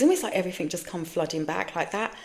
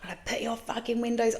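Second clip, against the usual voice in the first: whispered retold threat; 4 semitones higher, 4 dB quieter than usual. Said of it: "all I know is I was like".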